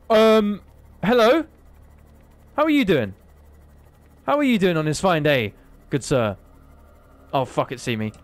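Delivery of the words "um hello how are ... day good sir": high, loud mock-posh greeting; mock polite greeting. Gamer greeting the sea monster, mock-polite high voice.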